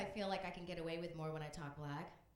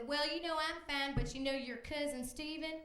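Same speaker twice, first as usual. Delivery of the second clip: put-on higher, breezy old lady, cracking up at the end; lightly voiced Texas grandma; 7 semitones higher than usual. A grandma on the Sunday call telling awful news breezily. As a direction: tell the tragedy as casual chit-chat. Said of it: "And she said".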